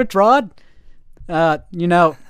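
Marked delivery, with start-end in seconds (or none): 0.0-0.5 mock outcry.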